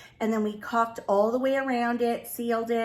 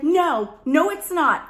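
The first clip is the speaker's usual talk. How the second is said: louder, higher retold objection; emphatic refusal; 4 semitones higher, 5 dB louder, slower than usual. Wife stopping husband at kitchen sink, acted emphatic refusal. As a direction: firmly forbid it, acting out the alarm.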